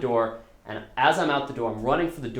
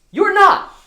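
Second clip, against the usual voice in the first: very high, very loud shouted note; capital letters; 15 dB louder than usual. Retold or imitated. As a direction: bellow it like a furious note in capitals. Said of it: "Capital letters".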